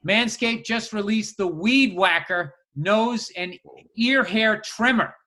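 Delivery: measured, announcer-like podcast sponsor read; casual host reading an advert. Acted. Reads a sponsor ad.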